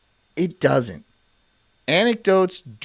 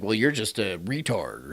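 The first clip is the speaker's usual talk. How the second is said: lightly mocked heckler; 8 semitones lower, 8 dB quieter than usual.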